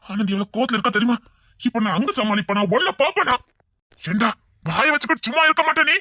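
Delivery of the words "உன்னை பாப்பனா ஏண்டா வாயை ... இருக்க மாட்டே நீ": exasperated scolding. Acted. Scolding brother for his behaviour.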